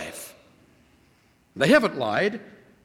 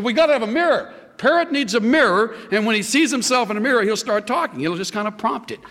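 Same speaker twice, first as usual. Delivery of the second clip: raised, eager salesman; a pushy shop owner selling more gear; pet store owner; 5 semitones higher, faster than usual. Acted. Pet store owner pushes a mirror on the widow, eager. Joke shopkeeper voiced.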